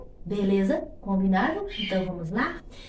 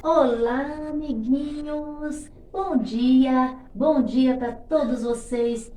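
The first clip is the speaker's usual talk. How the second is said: bright squeaky sing-song welcome; 2 semitones higher, 4 dB louder, much slower than usual. Acted. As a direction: greet the little friends brightly. Greeting children warmly.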